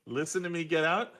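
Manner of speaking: imitating daughter. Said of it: "She's smiling at me like".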